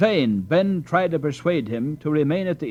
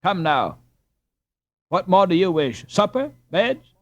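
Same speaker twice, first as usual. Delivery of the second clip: sharp, louder rising questions; sharply; 7 semitones higher, 5 dB louder than usual. A narrator's reading. Landlord sharply pressing a stranger, sharp and curt. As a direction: cut him off sharply. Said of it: "he added sharply".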